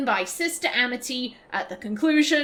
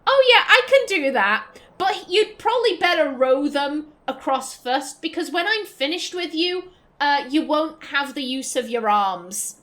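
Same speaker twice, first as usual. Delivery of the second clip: sultry menace; 2 semitones higher, 3 dB louder than usual. Retold or imitated. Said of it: "She's just like".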